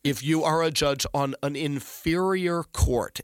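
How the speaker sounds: inferior leaned on a little; lightly stressed "inferior" in court. Shown as a demonstration. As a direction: give the word inferior light weight. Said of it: "I emphasize the word inferior".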